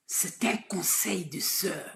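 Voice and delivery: slow, soft whisper; confiding whisper. Real, not acted. Sister confides advice to Souley, slowly whispered. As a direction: lean in and whisper it like a secret.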